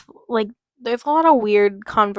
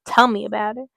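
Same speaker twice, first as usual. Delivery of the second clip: put-on Texan accent. Jane agreeing with the receptionist, light Texan accent. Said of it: "I don't know why I made her, like, Texan".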